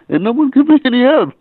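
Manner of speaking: breaks into a laugh mid-line, pitch jumping up. Real, not acted. Laughing while telling the host nobody helped.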